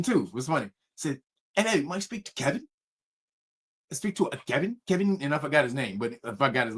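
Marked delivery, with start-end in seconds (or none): 1.5-5.2 soft, formal phone-prank voice; pretend executive. Prank caller asking to speak to his friend, pretend executive voice. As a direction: ask politely as a fake executive. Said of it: "pretended to be an executive".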